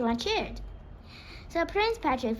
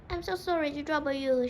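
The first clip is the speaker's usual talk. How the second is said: polite; 5 semitones higher, faster than usual. Acted. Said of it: "she said politely".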